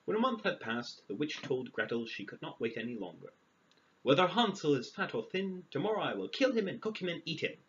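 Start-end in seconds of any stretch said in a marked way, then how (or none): 4.0-7.6 witch's threat. Acted. Witch threatening to kill Hansel.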